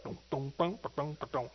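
soft low dum dum of the bass; bass dum imitation. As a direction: mimic the bass line quietly. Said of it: "that bass will start".

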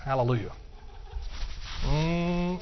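ordinary talk

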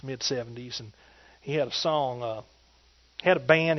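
normal talking voice

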